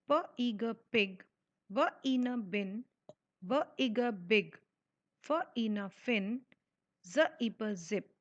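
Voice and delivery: slow phonics blending, sound by sound. Shown as a demonstration. Teacher sounds out words slowly for young readers. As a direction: sound each letter out slowly, then blend. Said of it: "उंगली रख के पढ़ने की कोशिश करिए".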